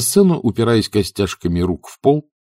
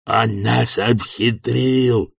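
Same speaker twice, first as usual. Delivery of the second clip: roaring; much slower than usual. A narrator's reading. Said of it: "проревел в ответ Бизон".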